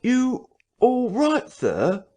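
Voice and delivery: high, slow, sharp call at the door. Acted. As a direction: call sharply a second time. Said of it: "asked Mister Hall sharply again".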